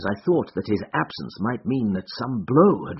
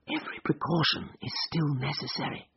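hushed, much softer warning; whisper; 3 semitones higher, 9 dB quieter than usual. A narrator's reading. Holmes warns Watson on the train, urgent hushed whisper. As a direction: drop to a secretive stage whisper. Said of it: "he whispered".

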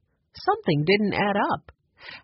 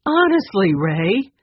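exasperated; 3 semitones higher, 5 dB louder, slower than usual. Acted. Fern exasperated, rolling her eyes.

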